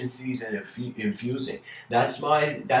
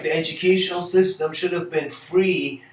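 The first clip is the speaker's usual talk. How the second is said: higher, louder exasperated outburst ending in a laugh; mock indignant; 5 semitones higher, 4 dB louder than usual. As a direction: rant about the obvious injustice. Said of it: "I was like".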